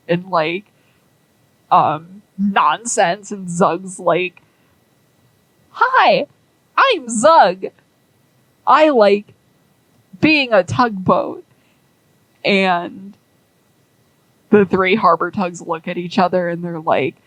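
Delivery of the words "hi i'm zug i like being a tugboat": high, simple-minded tugboat voice; a high voice for a tugboat who isn't very bright; dopey Zug voice. Acted. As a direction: talk like a cheerful dim little boat. Voicing dim tugboat Zug.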